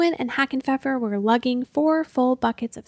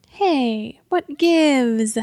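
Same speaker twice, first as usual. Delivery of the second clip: hissing; 4 dB louder, much slower than usual. Acted. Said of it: "hissed Burdock".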